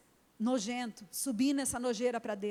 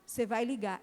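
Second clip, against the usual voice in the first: firm mother. Retold or imitated.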